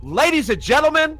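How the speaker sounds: high pitch, cracking voice. Real, not acted. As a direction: voice cracks from excitement. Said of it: "voice crack after that".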